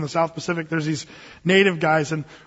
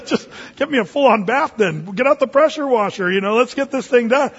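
playful eager; 4 semitones higher, 3 dB louder than usual. Retold or imitated. Joking paraphrase of Peter.

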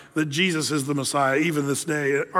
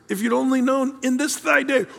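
pleading cry; 6 semitones higher than usual. Retold or imitated. Jesus weeping over Jerusalem, crying it out high. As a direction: cry out to the city in anguish. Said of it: "he's saying".

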